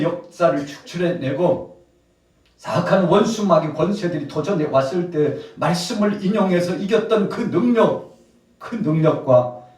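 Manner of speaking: loud, high, acted reproach; impassioned rebuke. Jesus taking the disciples to task over lost faith, loud rebuke. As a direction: pile up the reproach like a let-down master. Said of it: "제자들이 책망을 받았습니다".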